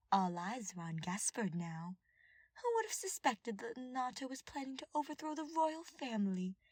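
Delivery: lightly voiced scheming advisor. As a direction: purr it like a gloating schemer. Villain advisor voiced in story.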